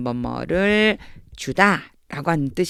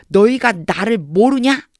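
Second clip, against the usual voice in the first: challenging question; 5 semitones higher, 6 dB louder, slower than usual. Shown as a demonstration. Teacher voices an incredulous challenge.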